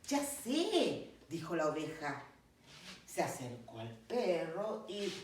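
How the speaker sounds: narración pausada y expresiva de cuento; cuento infantil. Acted. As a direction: cuenta el cuento a los pequeños, animando las frases. (narración de cuento para niños)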